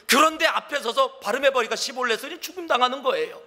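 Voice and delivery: ordinary delivery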